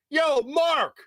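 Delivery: high-pitched hollering to get attention; retold yelling. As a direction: holler a name across the room, drawn out. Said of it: "this voice that is yelling".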